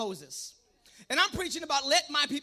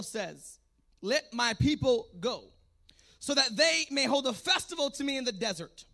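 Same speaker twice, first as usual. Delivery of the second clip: scripture reading. Real, not acted. Reads scripture aloud.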